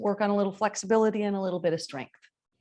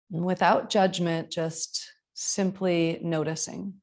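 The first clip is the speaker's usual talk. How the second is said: measured yoga teacher voice, long pauses; spacious, evenly paced breathing guidance; guided meditation. Acted. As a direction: guide them into the breath, unhurried.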